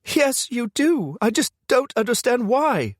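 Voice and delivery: high, loud female voice snapping back; woman snapping accusingly down the phone. A narrator's reading. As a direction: bite the words off in anger. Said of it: "she snaps".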